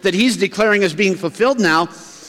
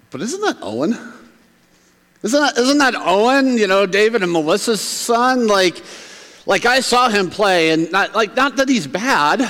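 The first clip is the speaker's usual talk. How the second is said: higher-pitched puzzled townsperson; acted disbelief; 4 semitones higher than usual. Local recognizing David and Melissa's son, puzzled disbelief. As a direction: play a doubtful local who knew him.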